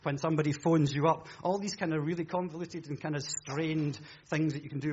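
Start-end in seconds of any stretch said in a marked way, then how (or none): 0.0-1.3 lightly hammed-up TV salesman; preacher mimics a shopping channel seller pitching a pen; shopping channel advert. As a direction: sell the pen like a late-night advert. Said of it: "they would say".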